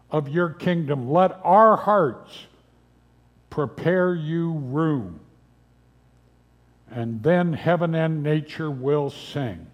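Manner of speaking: prayer. Real, not acted. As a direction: lead a congregation in unhurried prayer. Leads the congregation in prayer.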